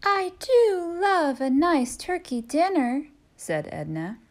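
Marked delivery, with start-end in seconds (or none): 0.0-3.1 high, fond farm wife. Acted. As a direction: relish the thought of turkey. Edna voiced in story.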